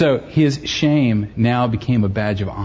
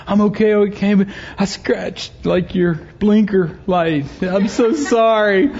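higher-pitched, halting imitation of a contrite kid; very sorry boy; 7 semitones higher than usual. Son admitting to dad he scratched the blinker, very sorry. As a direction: confess slowly in a higher, upset voice. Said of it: "he was seriously sorry".

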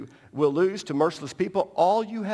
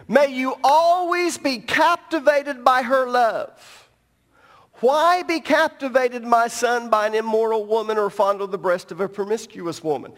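serious rereading; 4 semitones higher than usual. Acted. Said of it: "read that again".

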